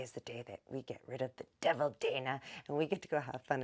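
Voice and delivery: whispered, secret-sharing aside; hushed whisper about the devil Dana; conspiratorial whisper. Acted. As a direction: lean in and whisper the scheme. Plotting to get rid of Dana.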